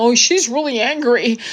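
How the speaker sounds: mock the critics in a prissy put-on voice; mocking whiny voice. Mocking the people who call her angry, prissy put-on voice. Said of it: "you'll have assholes go".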